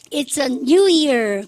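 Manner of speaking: word by word, very slow; drawn-out drill reading; slow choral model. Shown as a demonstration. Teacher models the answer for the class, very slow. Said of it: "그러면 오늘은 뭐야?".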